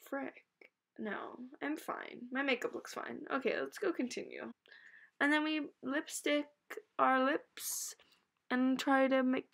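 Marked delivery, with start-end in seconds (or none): 0.1-4.5 soft whisper. Real, not acted. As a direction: whisper it under your breath. Whispering to herself.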